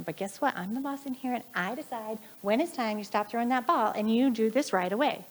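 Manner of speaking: mildly acted scolding mother; mock angry scolding. Retelling a mother scolding her son about the ball, mildly angry. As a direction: imitate a fed-up parent, without really yelling. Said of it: "she's yelling at him".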